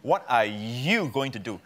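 "you" stretched and leaned on; stress on YOU. Acted. The enemy challenging a believer, heavy stress on "you". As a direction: put the weight on "you". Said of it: "The law emphasizes you".

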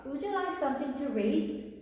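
very slow, every word laid out for learners; slow, careful classroom English; slow model reading. Shown as a demonstration. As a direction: read it slowly like a teacher modelling. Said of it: "네 번째 문장 볼게요".

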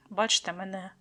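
ordinary talk, nothing marked

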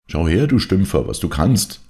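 loud taunting shout with the wrong Stümpfer; loud jeering call of Stümpfer. Acted. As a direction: yell Stümpfer, with an extra f, as a jeer. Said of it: "schrie er dem Weißen entgegen".

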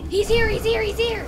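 urgent high yell he's here; alarmed warning shout; excited shout. Real, not acted. Spotting the monster, calling out.

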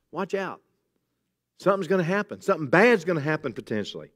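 Jesus warning his disciples, quietly. Retold or imitated.

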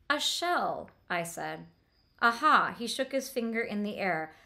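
lightly voiced dialogue read to the class; reading a novel aloud. Teacher to class, reading a scene with light voicing. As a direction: read the siblings' talk to students, lightly acted.

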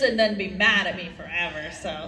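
usual speaking voice

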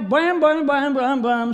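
rhythmic mimed whacks; imitated spanking blows. Father acting out the spanking, rhythmic imitated blams. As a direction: sound out each smack in turn.

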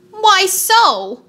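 high squeaky question; wheeler voice. A narrator's reading. Wheeler questions Tick-Tock, high squeaky voice. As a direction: squeak it indignantly. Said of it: "asked the wheeler".

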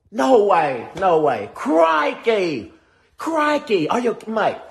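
over-the-top Aussie croc-hunter voice; Australian accent, hammed up; mock Australian. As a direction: play a hammed-up Australian nature host. Mock Aussie wildlife host sketch.

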